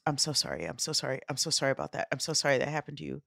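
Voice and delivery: softly repeated sorries, quick at the end; soft apology. Retold or imitated. Stranger apologizing softly to the crash victims. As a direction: hush it like a guilty stranger. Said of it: "Then he goes".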